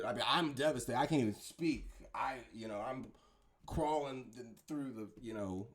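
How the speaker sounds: quiet, hushed mock grief, trailing off; mock devastated parent. Voicing a parent who can't speak for grief, hushed. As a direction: play a crushed parent who can barely speak.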